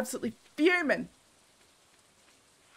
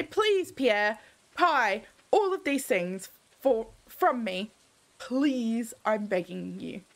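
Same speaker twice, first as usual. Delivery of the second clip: mock pleading; 2 semitones lower, slower than usual. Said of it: "We're going to say".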